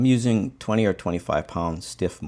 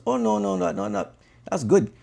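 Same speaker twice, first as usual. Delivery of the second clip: hammed-up amused guide; 5 semitones higher than usual. And he goes.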